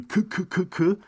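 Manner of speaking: repeated high "k" giggle syllables; imitated written laughter. Shown as a demonstration. Showing Korean chat laughter, a demonstrated k-k-k laugh. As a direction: mimic texted laughter in short repeated k sounds. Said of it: "oder auch das Lachen".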